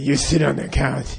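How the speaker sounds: Dirty Harry. Retold or imitated. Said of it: "He talked just like Dirty Harry".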